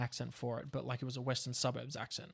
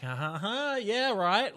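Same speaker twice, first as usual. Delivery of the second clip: tongue in cheek; 8 semitones higher, 6 dB louder, much slower than usual. Retold or imitated. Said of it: "tongue in cheek".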